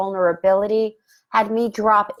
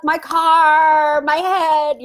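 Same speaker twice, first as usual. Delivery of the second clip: much higher, louder frantic outburst; mock panic; 8 semitones higher, 5 dB louder, much slower than usual. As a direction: play the freaked-out crash victim. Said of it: "Or I could be like".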